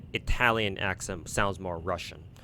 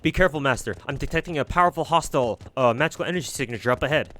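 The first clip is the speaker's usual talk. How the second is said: louder, fast alert to the master; urgent servant warning; 5 semitones higher, 4 dB louder, faster than usual. Acted. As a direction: warn of danger ahead, clipped and quick.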